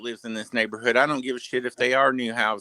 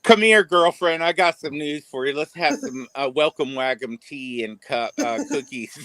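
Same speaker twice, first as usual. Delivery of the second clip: mock welcome; 3 semitones higher than usual. Mocking the neighbor inviting the wife over, lightly sugary. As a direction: sweet-talk her over like a fake friend.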